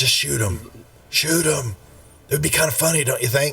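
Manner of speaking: very quiet, soft, coaxing murmur. Speaking to Lionel, ever so softly. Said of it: "just ever so softly".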